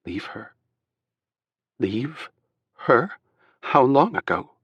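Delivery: disbelief building to alarm; shocked disbelief. A narrator's reading.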